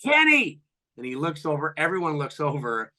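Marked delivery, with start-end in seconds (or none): 0.0-0.6 loud, high, drawn-out shout; heckler's call, pitched way up. Retold or imitated. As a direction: holler the name across to a rival. Retold shout across at rival.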